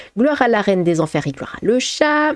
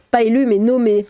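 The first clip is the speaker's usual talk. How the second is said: amused sarcastic stress; 3 semitones higher than usual. Real, not acted. Streamer correcting a chat comment, amused sarcastic stress. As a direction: lean on the last syllables of élu and nommé, amused and sarcastic. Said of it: "appuies sur la dernière syllabe d'un mot avec un air amusé et sarcastique".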